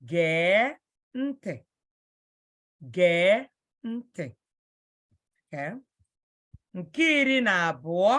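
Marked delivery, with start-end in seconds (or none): 0.1-1.5 "Gee" held long before "ntị"; long vowel. Shown as a demonstration. Teacher modelling listen in Igbo, long vowel in "Gee". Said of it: "Gee is a long vowel". 2.9-4.3 "Gee" stretched, a small break, then "ntị"; long vowel. Shown as a demonstration. Teacher repeating the word for learners, long vowel in "Gee". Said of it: "Gee is a long vowel".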